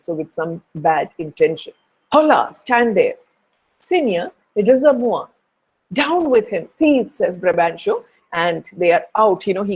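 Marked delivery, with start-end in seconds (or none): 2.1-7.1 raised pitch, calling out orders; rally the men against the Moor; angry father ordering soldiers to seize Othello, raised commanding call. Acted. Brabantio orders soldiers to attack.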